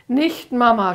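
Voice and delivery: put-on high, loud child's cry; frightened cry. Amy on the swing cries to her mother, high and loud. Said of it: "schrie sie".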